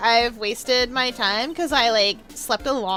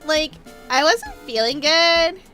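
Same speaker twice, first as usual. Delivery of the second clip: put-on Valley Girl accent; 3 dB louder than usual. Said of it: "do a Valley Girl accent".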